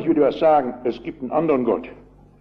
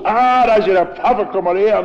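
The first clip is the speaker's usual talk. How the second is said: retold bellow; 4 semitones higher, 4 dB louder than usual. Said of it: "brüllt los".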